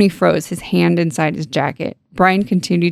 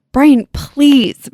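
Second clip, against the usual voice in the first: raised, higher shouted plea; pleading shout; 8 semitones higher, 5 dB louder than usual. Acted. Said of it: "Meg shouted".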